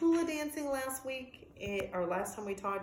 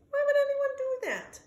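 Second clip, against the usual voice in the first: indignant disbelief; 5 dB louder than usual. Acted. Dog upset by cut trees.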